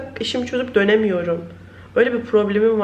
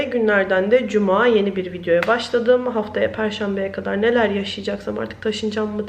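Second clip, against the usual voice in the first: ordinary talk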